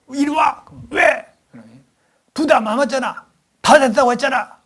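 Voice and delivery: high, loud squabbling voices; acted mother-child quarrel. The daughter argues back at her mother, loud and high. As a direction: play a bratty child talking back.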